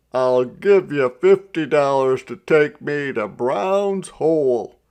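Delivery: loud shout to the driver. A narrator's reading. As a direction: call out the offer over the wind. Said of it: "Mister Jones shouted".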